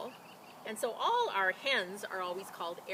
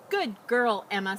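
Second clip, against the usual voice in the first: praising; 9 dB louder than usual. A narrator's reading. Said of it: "said the farmer's wife".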